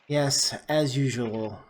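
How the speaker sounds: slow, lightly voiced aristocrat with quiet disdain; a hint of an unhurried, cool old-world lord; composed vampire noble.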